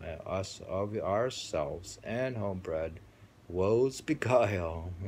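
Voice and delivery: slow, solemn poem recitation; solemn reading. Acted. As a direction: read the verse slowly and reverently. Do you think I read it solemnly?.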